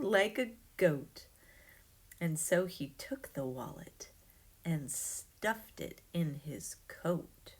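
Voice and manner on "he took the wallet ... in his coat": hushed secretive whisper, slowing down. A narrator's reading. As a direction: breathe it like a guilty secret. Sneaky taking of the wallet.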